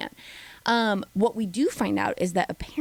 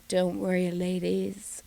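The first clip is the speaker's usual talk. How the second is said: a hint of a sinister host; dark lord host; 2 semitones lower, 3 dB quieter than usual. The speaker teasing the ladies, lightly villainous. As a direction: tease them with a villain's calm. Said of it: "she was like".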